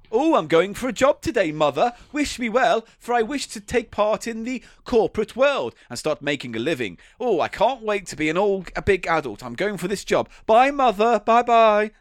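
a hint of chirpy naive youngster; bright-eyed kid off to first job; eager child. Improv character saying goodbye to mother, lightly chirpy. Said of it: "improv game".

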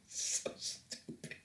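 wheezing with laughter; near-silent laughing; laughing breathlessly. Real, not acted. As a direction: gasp it out through laughter. Laughing at the tweet again.

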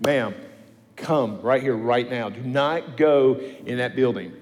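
emphatic order in short, firm phrases; firm command. Retold or imitated. Preacher stopping a mom at the clinic door, commanding. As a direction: order her over, allowing no argument. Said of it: "tells me to command them to come here".

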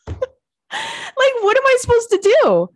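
high, wailing mock cry over the fur; mock despair. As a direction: whine it like a hammed-up breakdown. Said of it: "and you're like".

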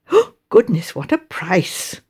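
gasp, then slowly marvel at it; taken aback; shocked gasp. Acted. Reader shocked by a price.

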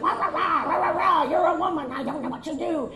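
lightly voiced blustering know-it-all; hammed-up condescending man; mock mansplaining. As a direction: gibberish lecture talking down to her. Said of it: "they're mansplaining to me".

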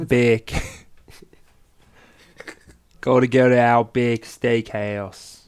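slow, loud mock Aussie slogan; drawn-out put-on Australian accent. Comic tops friend's failed accent with a slogan, Australian accent.

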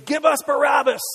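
acting out the crowd's loud cry; crowd shout. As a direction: shout it like the baying mob. Crowd screaming for Barabbas.

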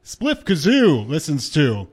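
slow showman station drop; grand flamboyant showman. Shown as a demonstration. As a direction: sell it like a ringmaster. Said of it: "I did a special voice for that".

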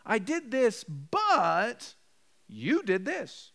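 imitating a bad apology; mock excuse apology. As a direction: drag out a half-hearted excuse. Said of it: "You avoid if, but, and maybe".

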